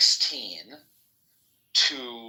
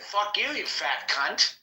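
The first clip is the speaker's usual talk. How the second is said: drawn-out, higher-pitched mock outburst; retold insult; 8 semitones higher, slower than usual. Man retelling his crash out at violet-sprayer, mock-angry insult. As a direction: stretch out the retold curse, pitch up.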